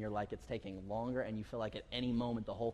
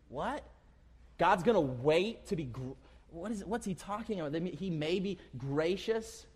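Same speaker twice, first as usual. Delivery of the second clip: higher, quizzical; higher puzzled what; puzzled surprise; 4 semitones higher than usual. Acted. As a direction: act baffled by the verse. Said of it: "questioning the verse".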